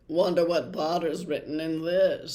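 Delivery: a hint of a taunting schoolboy; mild sneering Malfoy; lightly voiced sneer. A narrator's reading. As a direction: tease him lightly. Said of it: "said Malfoy".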